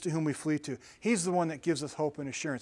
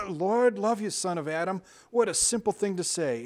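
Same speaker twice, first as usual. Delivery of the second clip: laughing; 4 semitones higher than usual. Acted. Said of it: "with a great laugh".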